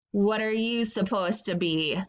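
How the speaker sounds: snippety tone. Acted. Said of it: "asked in a snippety tone".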